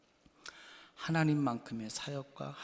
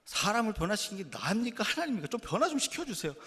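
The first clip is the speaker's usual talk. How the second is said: much higher and louder, pleading; 간절한 기도; 7 semitones higher, 4 dB louder than usual. Retold or imitated. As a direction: cry out to God begging for change. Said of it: "간절히 기도했어요". (훨씬 높고 크게 간절히 부르짖는 기도)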